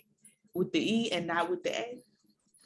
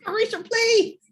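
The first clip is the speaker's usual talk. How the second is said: laughing; 10 dB louder than usual. Real, not acted. Laughing back at co-host.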